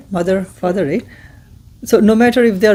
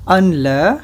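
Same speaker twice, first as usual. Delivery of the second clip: slow, syllable by syllable Arabic dictation; over-enunciate each Arabic word for repeating; said slowly; 5 dB quieter than usual. Shown as a demonstration. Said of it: "I will say this slowly".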